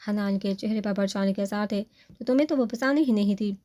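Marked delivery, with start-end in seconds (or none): 2.2-3.5 higher, teasing, trying not to smile; mock indifference, hiding a smile. Mother teasing her anxious son about his wife, hiding a smile. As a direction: tease him with a straight face. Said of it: "مسکراہٹ دباتے ہوئے بولی".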